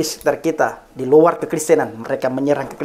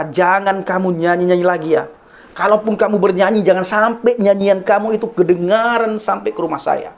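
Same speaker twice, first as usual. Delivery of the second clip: higher-pitched, mildly indignant mock scolding; retold angry warning; 4 semitones higher than usual. Angry neighbour forbidding the pastor to sing, mildly re-enacted indignant scolding. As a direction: imitate an angry man laying down a rule. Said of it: "membuat mereka marah sekali".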